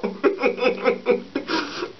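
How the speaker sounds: high rapid giggle; helpless laughing. Real, not acted. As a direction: burst out giggling. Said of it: "Oh, Jesus, help me".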